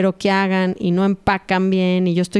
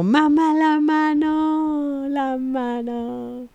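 put-on much higher, drawn-out whimpering little child; crying baby; 8 semitones higher, much slower than usual. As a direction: slowly whine it like a crying toddler, fading. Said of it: "El bebé llorando al mismo tiempo". (lloriqueo lento de bebé que se apaga)

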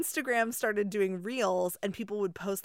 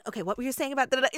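Broadway actor impression; 5 semitones higher, 4 dB louder, faster than usual. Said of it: "He'd be like".

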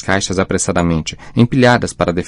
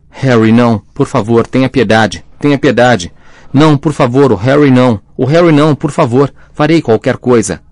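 louder, higher, frantic begging; desperate pleading; 4 semitones higher, 4 dB louder than usual. A narrator's reading. Mother begging the killer to spare her baby, frantic. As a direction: beg for the baby's life, voice rising.

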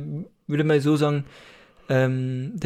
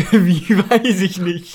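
laughing, loud disbelief, higher and drawn out; incredulous echo; 4 semitones higher, 8 dB louder, much slower than usual. Real, not acted. Teacher to clueless student, incredulous. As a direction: throw the answer back, loud and amused.

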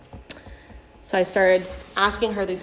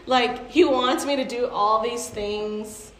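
mock complaint; 4 semitones higher, slower than usual. Retelling therapy, griping about God in a mock whine. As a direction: whine like a resentful servant. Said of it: "I'd be like".

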